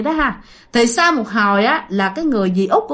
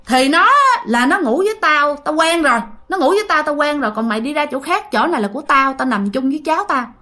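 higher-pitched, mildly scolding grandmother; insistent retort; 3 semitones higher than usual. Retold or imitated. Grandmother tells daughter this place is hers and grandchild's, insistent. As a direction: push back firmly, claiming the spot.

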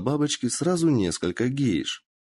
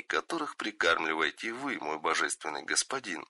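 much softer, bitter inner thoughts; quiet inner voice; 3 semitones lower, 6 dB quieter than usual. Acted. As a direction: say it under your breath, seething. Shinobi's silent bitter thoughts.

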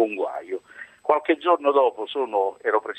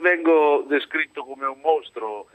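phone line audio; distant voice on the telephone; over a landline phone. Real, not acted. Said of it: "avvicini un attimo la cornetta, se no sentiamo poco".

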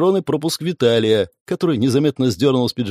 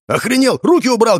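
angry shout; 10 semitones higher, 4 dB louder than usual. A narrator's reading. Scuffle, yelling at opponent.

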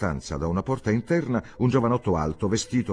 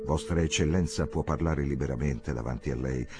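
touched, tender; 4 semitones lower than usual. Acted. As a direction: speak fondly of the woman. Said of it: "disse Ludovico tutto intenerito". (con tenerezza, commosso)

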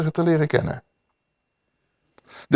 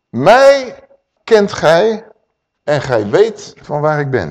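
crying out; 3 dB louder, slower than usual. Acted. Yeshua calling out in the temple, loud on the first word.

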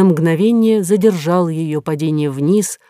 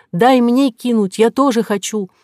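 eager plea; 5 semitones higher than usual. Acted. Kora's eager scripted plea.

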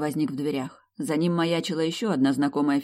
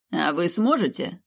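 snide; 3 semitones higher than usual. Acted. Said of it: "ехидно поинтересовался он".

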